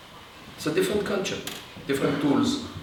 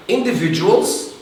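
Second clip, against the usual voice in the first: "individuals" stretched out slowly and pitched higher; emphasis on INDIVIDUALS; 6 semitones higher, 4 dB louder, slower than usual. Real, not acted. Lecturer on America uniting people, stressing "individuals". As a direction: stress the word "individuals", drawing it out. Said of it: "I emphasize the word individuals".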